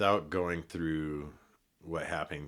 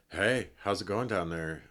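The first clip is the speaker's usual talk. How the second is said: a slightly higher, louder, clumsy attempt at a British accent; failed British accent; 4 semitones higher, 5 dB louder than usual. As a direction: try a British accent and miss. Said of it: "I just hear this British accent".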